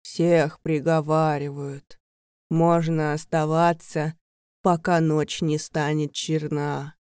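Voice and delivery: lightly voiced creature. Servant creature speaks eerily.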